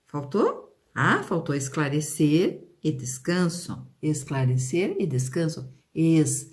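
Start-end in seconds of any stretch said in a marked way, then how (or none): none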